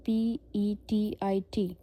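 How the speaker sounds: slow letter-by-letter spelling; spelled out slowly. Shown as a demonstration. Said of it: "इसकी example है".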